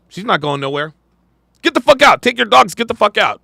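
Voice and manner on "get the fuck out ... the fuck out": retold yelling. Retelling the husband throwing her out, a mock yell. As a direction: echo the husband shouting her out. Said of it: "cuss her out, telling her to get the fuck out".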